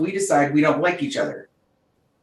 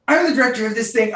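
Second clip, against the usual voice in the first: bossy director; 5 semitones higher, faster than usual. Retold or imitated. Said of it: "you're like".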